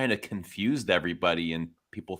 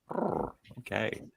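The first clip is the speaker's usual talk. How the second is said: put-on sultry French accent; 8 dB quieter, slower than usual. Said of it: "that sexual, tony French accent thing".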